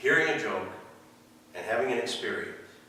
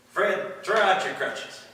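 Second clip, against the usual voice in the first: higher and louder, a revival healer's ringing command; preacher calling out; 11 semitones higher, 6 dB louder, slower than usual. Retold or imitated. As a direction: call it out over the whole tent like a Southern healer. Healer calls out to crowd.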